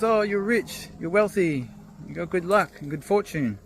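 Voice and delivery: high, eager congratulating voice; excited neighbour. Retold or imitated. Neighbour gushing to the farmer about his luck, excited. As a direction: gush over his luck like a nosy neighbour.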